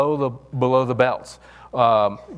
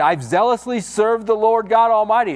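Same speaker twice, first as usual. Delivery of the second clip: high, pleading protest; a complaining prophet, pitched well up; whiny Elijah; 10 semitones higher than usual. Retold or imitated. Elijah protesting his loyalty to God, high and pleading.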